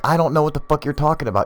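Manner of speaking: high-pitched retold shouting; mock angry yell. Man yelling at his friend, mock angry. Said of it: "he's yelling at his friend".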